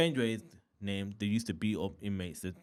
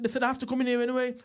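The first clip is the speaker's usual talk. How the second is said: high, loud, hurried protest; rushed, raised-voice retort; acted protest; 6 dB louder, much faster than usual. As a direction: blurt it fast and high, imitating an arguing newcomer. Acted newcomer arguing at the door.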